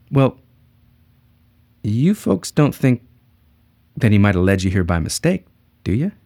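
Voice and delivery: gentle, smiling sincerity; warm smile. Shown as a demonstration. Salesman to devout couple, with a big warm smile. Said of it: "with a big, warm smile".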